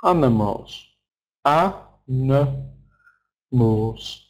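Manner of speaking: "Animals", then broken slowly into A, N, mals; syllable by syllable. Shown as a demonstration. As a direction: sound out "Animals" piece by piece, stressed A first. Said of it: "the stressed sound".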